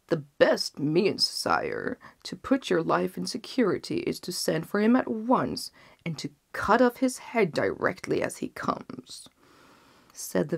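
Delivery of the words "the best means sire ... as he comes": hushed, conspiring counsel; sly vizier. Acted. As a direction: murmur the deadly advice. Vizier urges execution.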